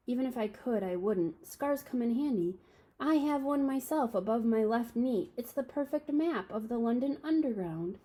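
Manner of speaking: a hint of a wise old wizard; Dumbledore voice. Dumbledore voiced, raised pitch.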